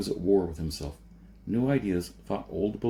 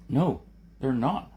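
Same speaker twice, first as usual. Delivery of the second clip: insisting; 6 semitones higher, 3 dB louder than usual. A narrator's reading. Jason insisted.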